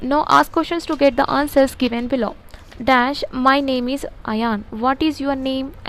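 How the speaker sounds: slow, word-by-word dictation read. Shown as a demonstration. Teacher dictating a model answer to students, very slow and deliberate. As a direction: spell it out slowly so they can write.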